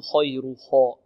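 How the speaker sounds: purse the lips on the خ of خير; wrong rounded خ. Shown as a demonstration. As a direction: mistaken kho-like start to خير. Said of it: "نضم الشفتين في الخاء". (خير بضم الشفتين في الخاء خطأً)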